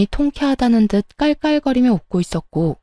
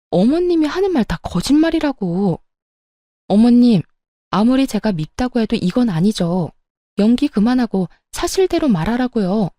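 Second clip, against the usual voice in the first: rising angry voice. Retold or imitated. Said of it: "저의 언성은 점점 높아졌고".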